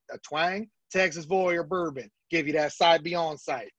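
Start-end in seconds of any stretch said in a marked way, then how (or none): 0.9-2.1 slow, lightly voiced Texas twang; hammed-up Texas accent, slow. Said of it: "we could do it in, like, a twang". 2.3-3.7 slow, lightly voiced Texas twang ad read; a hammed-up Texas drawl selling bourbon; a hint of a Texas accent, slow like a whiskey ad. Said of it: "we could do it in, like, a twang".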